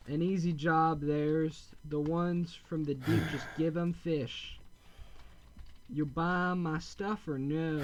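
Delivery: slow pirate-ish villager voice, drawn out; a salty fisherman hawking wares; pirate accent. Acted. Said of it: "I don't know why I gave him that accent".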